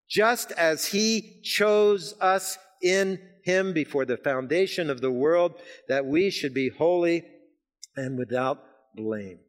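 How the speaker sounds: slow, measured reading of verse; slow solemn scripture read. Acted. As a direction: read the verse slowly and reverently.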